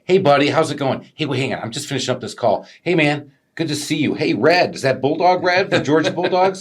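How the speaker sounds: put-on high, buddy-buddy hail to an old pal; mock chummy customer, pitched high; chummy customer greeting. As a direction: greet him like your best friend. Acting out buddy-style customer greeting.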